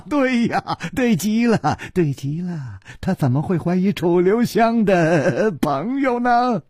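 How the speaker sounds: high, gleeful laughing delivery; laughing loudly. Acted. Nangong Ling mocks his accuser, laughing. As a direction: crow it through laughter. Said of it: "南宫灵大笑".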